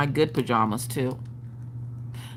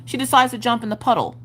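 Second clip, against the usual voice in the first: bright storybook narration, a bit higher; Peppa Pig narrator voice; 4 semitones higher than usual. Shown as a demonstration. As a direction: read it like a Peppa Pig episode. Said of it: "my daughter realizes that her name is not Peppa Pig".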